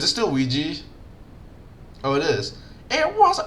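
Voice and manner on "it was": very high squeaky auntie; old auntie voice. Acted. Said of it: "I'm not doing this whole thing in this voice".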